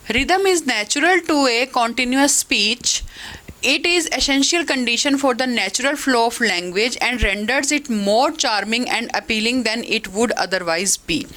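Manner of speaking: slow, careful textbook read-aloud; measured classroom dictation. Acted. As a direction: read the definition out slowly for the class. Reads English definition aloud.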